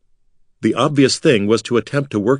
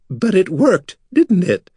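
high, smug and pleased with herself; smug rasp; 10 semitones higher than usual. A narrator's reading. Bekla answering Artek, smug and raspy. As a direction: rasp it out like a cat with cream. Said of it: "she rasped smugly".

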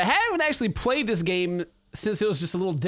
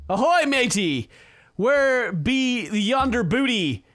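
pirate voice; slower than usual. Pretend. Playing pirate ship.

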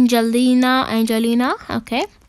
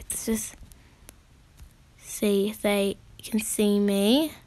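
whisper; 3 semitones lower, 7 dB quieter than usual. Real, not acted. Sneaking near the owner.

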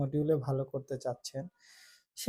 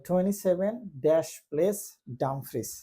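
slow reading; much slower than usual. Shown as a demonstration. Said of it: "একটা জায়গার নাম বলবে".

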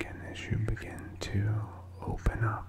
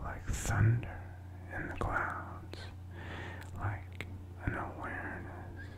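whispering. Real, not acted. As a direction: whisper it all, unvoiced and intimate. Whispers the whole talk.

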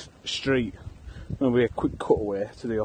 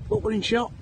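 exasperated repeat; 8 semitones higher than usual. Real, not acted. Repeats louder, higher to dog.

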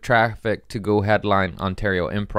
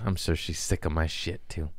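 breathy unvoiced whisper; whispered admission; 4 semitones lower, 8 dB quieter than usual. Real, not acted. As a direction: confess it under the breath. Confessional aside.

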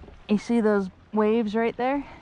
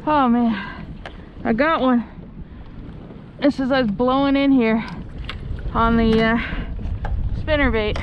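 louder, thrilled fish-on call; excited; 3 semitones higher, 3 dB louder than usual. Real, not acted. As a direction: shout it out as the fish hits.

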